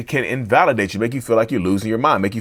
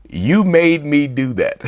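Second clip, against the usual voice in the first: laughing quote; 3 semitones higher, much slower than usual. Retold or imitated. Quoting blame, laughing.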